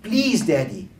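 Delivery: high, slow, begging plea with a hint of tears; crying plea. The crying boy begs his father not to leave Grandpa, slow and high. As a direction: beg him slowly, close to tears. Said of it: "And the boy started crying".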